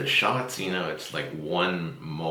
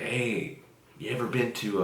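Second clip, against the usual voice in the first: imitating Van Dyke; 5 semitones higher than usual. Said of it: "And he's like".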